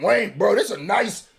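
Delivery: mock exclamation to Wayne. Reactor urging Wayne on over the beat, mock exclamation. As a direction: build to a high, fast, incredulous question. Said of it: "I'm like".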